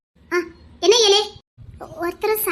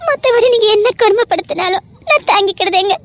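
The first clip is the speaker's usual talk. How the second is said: tearful plea. Acted. Wife pleads for her place.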